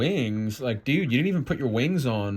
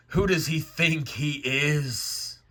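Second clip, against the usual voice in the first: slow, drawn-out affronted grumble; indignant Satan; 3 semitones higher, slower than usual. Acted. Proud Satan reacting to Gabe's order, indignant. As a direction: stretch it out, affronted.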